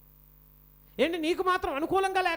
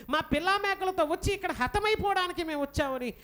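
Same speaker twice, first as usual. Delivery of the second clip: imitated wailing; 5 semitones higher than usual. Israelites complaining to Moses in the wilderness, imitated wailing. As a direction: wail in complaint, acting out the crowd. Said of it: "ఎంతలా ఏడుస్తున్నారంటే".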